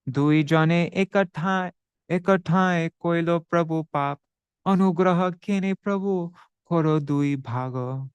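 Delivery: Bengali verse read with devotion; verse recitation. Acted.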